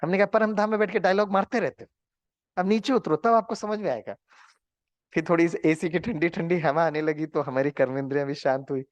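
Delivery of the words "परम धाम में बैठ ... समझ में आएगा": higher, half-joking angry rebuke; angry complaint. Retold or imitated. Narrator retells scolding Baba, mock-angry and higher. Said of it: "हमें बाबा पर ही बड़ा गुस्सा आया".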